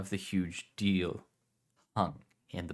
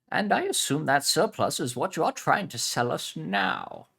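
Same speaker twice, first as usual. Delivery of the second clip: put-on Spanish accent; 9 semitones higher, 5 dB louder than usual. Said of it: "Spanish heritage".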